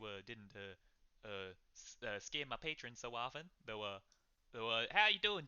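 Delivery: lightly voiced, hesitant innkeeper; halting, faintly amused character voice. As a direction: hem and haw through a polite request. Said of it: "he's smiling a bit almost to laugh".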